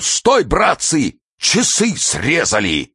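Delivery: slow, drawn-out holler; mild bark. A narrator's reading. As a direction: call out the theft with stretched words. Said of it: "вдруг гаркнул".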